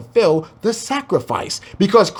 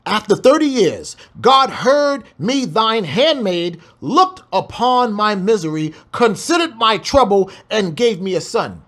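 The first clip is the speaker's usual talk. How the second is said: scripture reading; 3 semitones higher than usual. Acted. Reads scripture aloud, slow.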